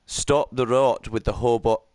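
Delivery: lightly attempted Scottish accent. Shown as a demonstration. Streamer shows Nathan his practised impression of a Scotsman, light Scottish accent. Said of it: "gonna do my impression of a Scotsman".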